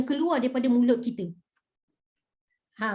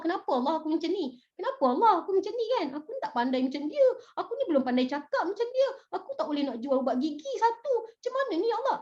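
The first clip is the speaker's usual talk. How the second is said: quick, mildly whiny protest; grumbling complaint; 4 semitones higher, faster than usual. Acted. Teacher mimics someone asking God why me, mild hurried grumbling. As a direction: rattle off excuses in a light mock whine. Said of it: "Dia bersungut".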